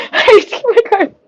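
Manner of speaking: high, laughing fluster; mild panic. Real, not acted. Streamer needing the card mid-countdown, high and flustered. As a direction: panicky squeal with a nervous laugh. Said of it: "This is when we don't panic".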